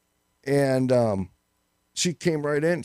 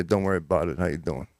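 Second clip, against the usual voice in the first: New York Italian; 9 semitones lower than usual. Shown as a demonstration. Host demonstrating the New York Italian greeting for his cohost. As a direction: give it that New York Italian tough-guy cool. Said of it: "So now say".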